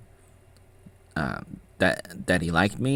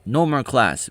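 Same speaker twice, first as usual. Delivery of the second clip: quoting the monks; 7 semitones higher, 7 dB louder than usual. Retold or imitated. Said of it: "They would say".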